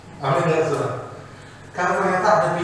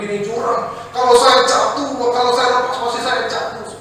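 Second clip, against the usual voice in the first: panicked climber; 7 semitones higher, 5 dB louder than usual. Acted.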